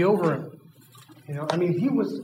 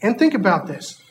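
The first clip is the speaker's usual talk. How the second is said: calm coaxing. Acted. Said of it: "He's like".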